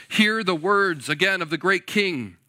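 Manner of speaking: loud herald's taunt; loud proclaiming envoy. Retold or imitated. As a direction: bellow it across the walls. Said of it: "he continues".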